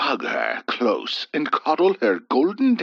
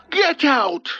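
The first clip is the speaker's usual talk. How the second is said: higher mock shout; crying out; 14 semitones higher than usual. A narrator's reading. Old husband ordering the punk out, shouting. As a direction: bark him out the door. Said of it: "Hubert cried out".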